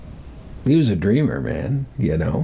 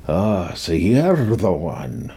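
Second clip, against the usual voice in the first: put-on slow, drawn-out Scottish accent; put-on Scottish voice, words stretched out; 2 semitones lower, slower than usual. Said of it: "in this Scottish accent".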